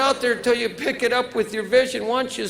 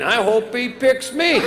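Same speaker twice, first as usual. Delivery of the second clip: talking belt. Pretend. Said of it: "each belt was talking".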